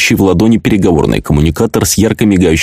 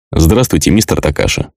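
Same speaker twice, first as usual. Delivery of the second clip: slightly robotic, gurgling voice; a hint of machine, wet bubbling tone; mechanical bubbling voice. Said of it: "слегка механический и булькающий голос".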